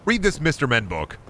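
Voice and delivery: guidance counselor. Retold or imitated. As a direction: imitate an ineffective school counselor offering help. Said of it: "the type of guidance counselor to be like".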